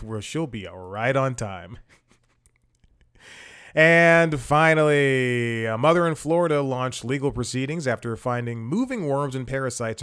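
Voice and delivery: deliberate, punchy late-night news read; comic news monologue. Acted. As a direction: deliver it like a satirical anchor reading headlines. Delivers mock news monologue.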